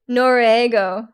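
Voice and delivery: slow "Noruego" with an English R, white American style; very white accent. Shown as a demonstration. Showing the most white way to say it, English-speaker accent. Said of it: "like, white you could say it".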